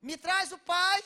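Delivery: slow, loud, high order; angry command. Retold or imitated. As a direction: spell out each word like a furious order. Therapist furious demanding the father.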